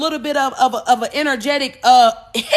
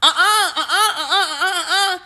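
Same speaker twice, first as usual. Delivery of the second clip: the higher self laughing off the blame; much higher, amused uh-uh; laughing refusal; 7 semitones higher than usual. Retold or imitated. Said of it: "your higher self is like".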